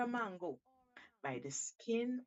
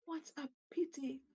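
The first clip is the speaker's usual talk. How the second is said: a lightly raised, cunning monkey voice; a hint of a crafty monkey; sly Monkey. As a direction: coax the shark with mock regret. Monkey speaking to Shark.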